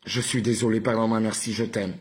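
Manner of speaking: mild mock anger, firmly pushed. Shown as a demonstration. Showing viewers the mantra with anger, mildly angry. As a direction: push the phrases out with some anger. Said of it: "Avec colère".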